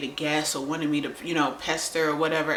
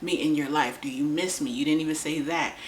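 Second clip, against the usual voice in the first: exasperated pleading. Retold or imitated. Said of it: "I'm like".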